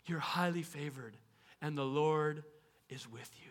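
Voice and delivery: angel's greeting fading to a whisper; a quiet heavenly blessing; hushed angel. Pretend. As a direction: speak low and trail into a whisper.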